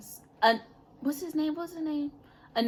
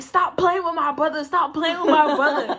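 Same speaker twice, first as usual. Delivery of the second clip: mock angry; 4 semitones higher than usual. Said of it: "at this point, I'm mad".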